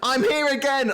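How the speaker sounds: high-pitched mock villain announcement; taunting orc. Orc interrupting a fight with two captains, high and gloating. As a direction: crow it high, as a pest returning.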